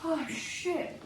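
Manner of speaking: slow pained words through burning lips; mouth burning from hot sauce. Real, not acted. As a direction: talk like your mouth is on fire. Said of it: "My lips are on fire".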